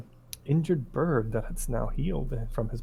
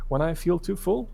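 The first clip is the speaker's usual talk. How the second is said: put-on boy voice; 6 semitones higher than usual. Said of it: "And he says".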